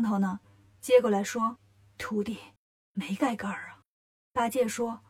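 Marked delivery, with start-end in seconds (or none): 2.0-3.8 soft, low master's voice; feeble Tang Monk. A narrator's reading. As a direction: pipe up quietly to your disciples. Tang Monk timidly joins in. (唐僧低声插话)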